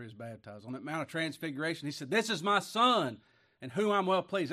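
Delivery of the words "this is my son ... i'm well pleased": booming voice of God. Acted. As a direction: announce it like heaven speaking. Voice of God from heaven.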